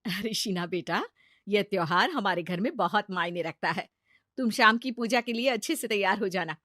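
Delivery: gentle mother-in-law. Acted.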